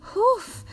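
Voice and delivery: high-pitched "whew" after a scare; sigh of relief. A narrator's reading. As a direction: let out a startled, relieved breath. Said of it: "نفس بلندی کشید". (هوفِ بلند از سر ترس)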